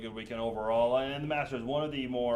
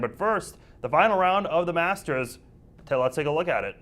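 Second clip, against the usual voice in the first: upbeat show host; 3 semitones higher than usual. Acted. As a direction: sell the lineup like a TV host. Co-host previews show lineup.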